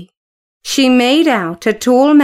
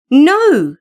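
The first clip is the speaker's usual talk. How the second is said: exclaiming; 3 semitones higher, 3 dB louder than usual. Acted. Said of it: "exclaimed Alan".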